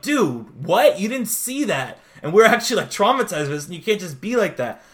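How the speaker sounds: acted-out incredulous scolding; mock indignant disbelief. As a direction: call out a friend in disbelief. Classmates scold the bragging kid.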